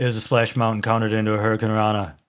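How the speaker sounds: flat, monotone delivery with absolutely no emotion. Retelling a wrestler's backstage interview answer: flat emotionless Konnan impression. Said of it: "with absolutely no emotion in his voice whatsoever".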